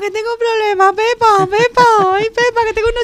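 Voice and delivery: high, wailing, frantic cries for Pepa; hysterical movie quote. Pretend. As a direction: wail for Pepa in near panic. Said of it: "Mujeres al borde del ataque de nervios".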